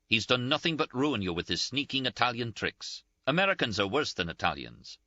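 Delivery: high-pitched, indignant, close to tears; Ferguson's scolding. A narrator's reading. Ferguson voiced, scolding Henry.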